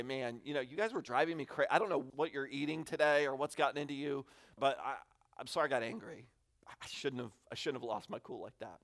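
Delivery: put-on quietly apologizing to his kids after losing his cool; sincere apology. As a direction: say sorry gently after yelling.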